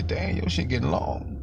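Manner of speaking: high-pitched amazed exclamation; imitated astonishment. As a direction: play someone amazed at the change. Acted amazed remark on grown hair.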